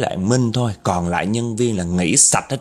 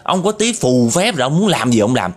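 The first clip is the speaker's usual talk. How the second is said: scolding the ghost; 2 semitones higher than usual. Retold or imitated. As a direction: keep berating the ghost without letup. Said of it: "Tôm nó chửi cái vong kia quá trời luôn". (tiếp tục mắng con ma dồn dập)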